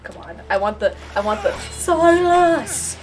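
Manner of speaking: ordinary delivery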